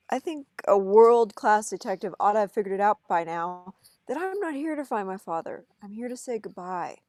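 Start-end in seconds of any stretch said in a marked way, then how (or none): 0.1-5.6 louder, fed-up retort; frustrated outburst. Acted. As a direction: push back hard at the cocky detective. Tim snaps at Pikachu.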